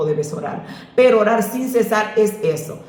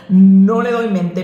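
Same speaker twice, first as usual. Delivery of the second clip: emphatic loud; 7 dB louder, slower than usual. Real, not acted. Emphatic point in sermon.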